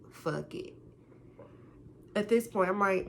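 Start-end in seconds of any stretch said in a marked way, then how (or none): 0.1-0.7 soft, lower baby-voiced pout. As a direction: say it in a sulky baby voice. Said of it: "In my, the baby voice".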